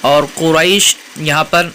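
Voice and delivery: قریش with the long ay drawn out; stretched vowel. Shown as a demonstration. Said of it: "مد لین عارض ہے".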